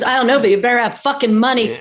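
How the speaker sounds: mock shout of a fed-up mother; mother's angry shout. Mother snapping at the daughter about money, mock shout. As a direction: bite the line off like an irritated mother. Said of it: "she goes".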